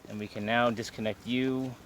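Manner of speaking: loud, carrying call down the slope. Real, not acted. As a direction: project instructions across the distance. Belayer calls across slope.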